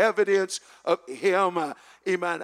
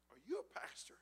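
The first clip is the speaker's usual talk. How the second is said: whispered question; 19 dB quieter, faster than usual. Retold or imitated. Retold man's question.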